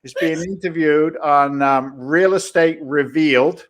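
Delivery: slow, drawn-out proud husband announcement; boasting husband. Pretend. Guest plays host's husband telling his Boston buddies, slow mock boast. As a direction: stretch it out, playing a husband showing off. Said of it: "your husband tells all his Boston buddies".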